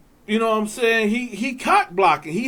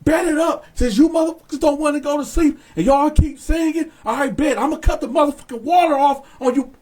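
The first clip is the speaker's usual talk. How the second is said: mock guard yelling; 4 semitones higher, faster than usual. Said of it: "he's screaming back".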